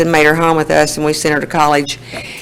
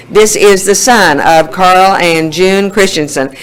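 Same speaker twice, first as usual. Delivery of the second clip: slow, deliberate boast; bragging; slower than usual. Retold or imitated. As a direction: announce it slowly and proudly, as if bragging. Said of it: "and I'd brag".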